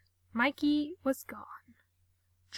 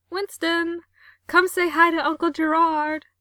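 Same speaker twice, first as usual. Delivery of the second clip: put-on high, loud baby talk to a dog; 6 semitones higher, 9 dB louder than usual. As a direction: coo at the dog. Talking to the dog.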